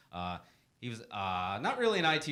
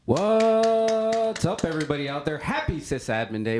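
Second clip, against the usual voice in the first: big, loud, high hello to the crowd; loud greeting; 4 semitones higher, 8 dB louder than usual. Real, not acted. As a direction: call out to the whole room. Host opens his segment loudly.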